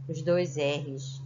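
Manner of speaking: dois R's said slowly and deliberately; slow emphasis. Shown as a demonstration. Teacher to pupils, stressing the two R's. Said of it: "Coloca os".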